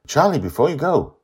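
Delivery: put-on high, eager child voice; a girl catching her friend before he goes; little girl Joy. A narrator's reading. Joy stops Charlie before he leaves, high childlike voice.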